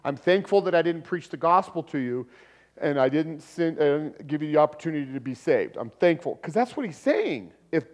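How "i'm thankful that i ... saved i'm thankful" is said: mock absurd Paul. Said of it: "do you think Paul would be saying".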